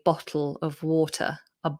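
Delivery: low-pitched London "Bottle of water" with glottal T; London accent, T replaced by glottal stops. Shown as a demonstration. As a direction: imitate a Londoner swallowing the T in "bottle". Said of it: "in London say".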